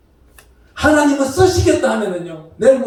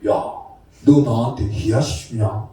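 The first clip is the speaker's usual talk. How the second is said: slow, much lower Gyeongsang dialect growl; 12 semitones lower, 5 dB quieter, slower than usual. Retold or imitated. Pastor teasing a colleague on the phone, slow low Gyeongsang dialect. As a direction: tease a fellow pastor in thick Gyeongsang speech. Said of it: "내가 경상도 말로 좀 그랬어".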